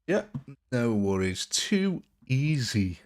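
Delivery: drawn-out, unconvincing Australian accent; attempted Australian accent. Shown as a demonstration. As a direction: have a slow go at an Aussie accent. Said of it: "I still can't do the Australian accent".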